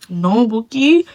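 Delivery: "No, Bookie" pressed harder, rising and set apart; emphatic correction. Shown as a demonstration. Vlogger repeats no Bookie to her viewers, firmer and pointed. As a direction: lean into "No, Bookie" to correct them firmly.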